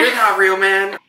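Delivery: hammed-up dazed dismissal; Creed impression. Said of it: "And Creed says".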